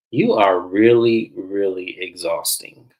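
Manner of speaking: slow, drawn-out weary verdict; exasperated. Acted. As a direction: stretch each word, fed up with her. Voices own weary retort to Letitia.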